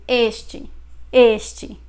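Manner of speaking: "este" with the final e said as ee; fast-speech pronunciation. Shown as a demonstration. Portuguese teacher showing everyday fast speech, final e of "este" as ee. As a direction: say "este" ending in a short ee sound. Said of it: "usually when we are speaking fast, we say".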